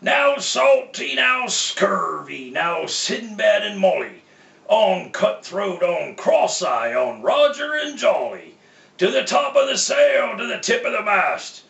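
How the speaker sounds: rally them like a driver calling his team. Acted. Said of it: "whistled and snarled and called them by name".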